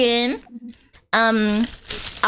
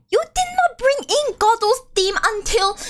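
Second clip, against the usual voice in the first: indignant complaint; 12 semitones higher than usual. Retold or imitated. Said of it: "I was still like".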